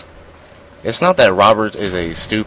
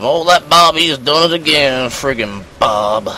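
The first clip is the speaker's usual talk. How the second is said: higher, louder mock grumble about Bob, slowing at the end; mock exasperation; 5 semitones higher, 4 dB louder than usual. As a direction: fake annoyance at a troublemaking pal.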